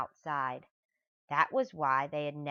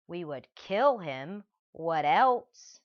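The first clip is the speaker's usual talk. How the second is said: mild thug threat; 6 dB louder, slower than usual. Acted. Max threatens.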